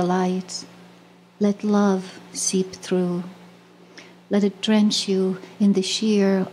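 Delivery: measured poetry reading with long pauses between lines; poem recitation. Acted. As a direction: recite it slowly, line by line, as a tender invocation. Reads her poem aloud.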